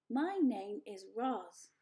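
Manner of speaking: slow, even machine voice; slow robot voice. Acted. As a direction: announce it like a robot. Robot introduces itself.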